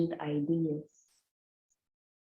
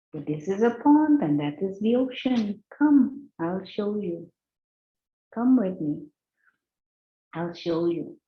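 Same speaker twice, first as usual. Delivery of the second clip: inviting ocean frog; 2 semitones higher than usual. Acted. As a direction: coax him to come along.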